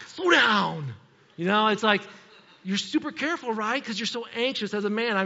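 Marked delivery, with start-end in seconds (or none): 0.1-0.9 loud, drawn-out yell at passing drivers; acted scolding shout. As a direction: yell it like an anxious new parent. Acted anxious parent scolding drivers.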